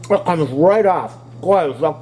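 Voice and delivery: chewing while talking; mouth full. Real, not acted. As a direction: talk through a mouthful of corn. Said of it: "never talk with your mouth full".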